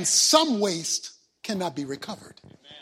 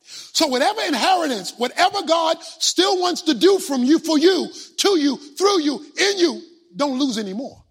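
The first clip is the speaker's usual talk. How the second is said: raised, louder urgent exhortation; loud preaching plea; 4 semitones higher, 6 dB louder than usual. Real, not acted. Preacher urging the church not to waste their inheritance, loud plea. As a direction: press the church hard, voice lifted high.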